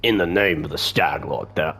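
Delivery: a measured, mock-official demand; lightly voiced Stag Lord's thug. Bandit demands tax from Oleg, lightly voiced, slow official demand.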